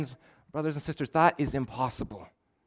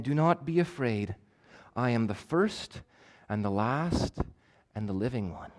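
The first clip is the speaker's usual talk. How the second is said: gentle reassurance; 2 semitones lower, 6 dB quieter than usual. Retold or imitated.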